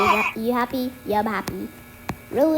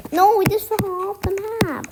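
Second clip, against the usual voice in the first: laughing shout; 7 semitones higher, slower than usual. Real, not acted. Fell off the map.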